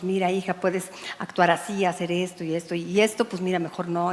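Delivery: gentle counsel. Retold or imitated. Pastor retells her gentle counsel.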